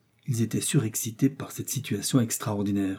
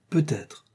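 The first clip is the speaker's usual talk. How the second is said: "Peut-être" pitched up and set apart; stress on Peut-être; 6 semitones higher than usual. A narrator's reading. Samuel answers the hunter, insisting on "Peut-être". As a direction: lean meaningfully on "Peut-être". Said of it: "en insistant sur ce mot".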